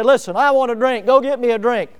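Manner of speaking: commanding order. Retold or imitated. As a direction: order the men out like a king. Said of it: "He didn't order a couple of his men".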